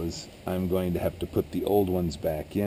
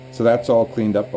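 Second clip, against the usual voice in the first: yelling over leaf blower; 4 semitones higher, 5 dB louder than usual. Real, not acted. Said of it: "hopefully you can hear anything over all the blowing".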